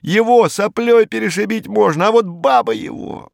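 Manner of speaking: a scared, scornful little thug blustering; Hinkus voiced. A narrator's reading. Narrator voicing Hinkus to the inspector, a high, jittery crook voice.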